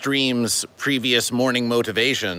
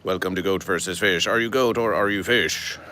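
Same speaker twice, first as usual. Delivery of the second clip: low, flat monotone welcome; the old flat greeting in a lower register; flat delivery; 4 semitones lower than usual. Shown as a demonstration. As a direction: say it with no lift at all, deadpan. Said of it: "a very flat versus".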